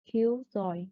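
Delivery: KILL stressed in "killjoy"; first-part stress. Shown as a demonstration. Teacher giving a compound example, "killjoy" stressed on "kill". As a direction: lean on "kill" in "killjoy", let "joy" fall away. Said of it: "In main thread on the first part".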